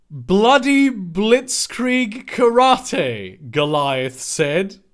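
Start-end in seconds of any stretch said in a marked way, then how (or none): 0.1-3.5 growled battle cry. Acted. Goliath's battle cry read aloud.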